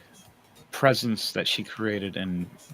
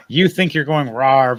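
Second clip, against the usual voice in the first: dragon roar; 8 dB louder, slower than usual. Retold or imitated. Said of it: "You sound like one when you do it".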